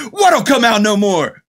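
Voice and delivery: high, slow, baffled question; baffled Jack Burton. Retold or imitated. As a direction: ask it completely bewildered. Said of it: "he goes".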